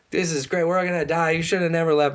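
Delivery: high sarcastic moaning; sarcastic whining. Retold or imitated. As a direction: whine it like a doomed grumbler. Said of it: "Everyone's complaining".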